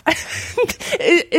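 fast, through giggles; laughing fit. Real, not acted. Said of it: "einen Wutanfall nach dem anderen".

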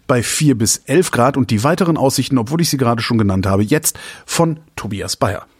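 measured, formal news-read cadence; weather forecast read. Acted. Reads weather forecast on air. (Wetterbericht im Nachrichtenton)

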